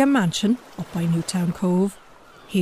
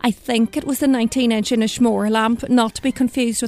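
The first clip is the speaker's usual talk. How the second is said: put-on Donegal accent. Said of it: "'cause I'm from Donegal".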